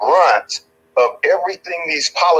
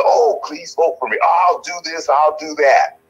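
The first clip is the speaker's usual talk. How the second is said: mock pleading politician; 4 semitones higher than usual. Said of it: "they're saying".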